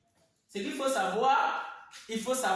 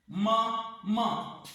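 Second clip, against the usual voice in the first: "Man, man" as two detached syllables. Shown as a demonstration. Teacher dividing maman for pupils, "Man, man" syllable by syllable. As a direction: say "Man, man" with a gap between. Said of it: "les découper simplement par syllabe".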